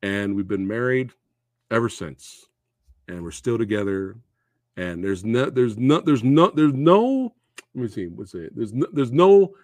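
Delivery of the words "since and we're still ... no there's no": struggling to keep emotion in check; halting, emotional stumble over the words; getting emotional. Real, not acted. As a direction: fight back emotion while hunting for the word. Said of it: "try not to get emotional".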